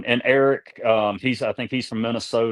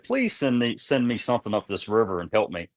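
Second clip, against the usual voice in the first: earnest retold plea; retold prayer. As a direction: beg the Lord for a little help. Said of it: "literally prayed to the Lord".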